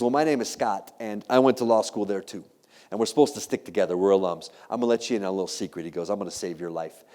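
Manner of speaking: low, softened confiding voice; imitated creepy whisper. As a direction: let them in on a secret, lightly creepy. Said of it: "He starts to whisper into my ear".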